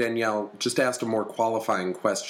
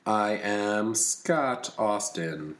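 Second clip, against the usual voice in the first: slow, even robot voice; much slower than usual. Real, not acted. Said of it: "I said that like a robot".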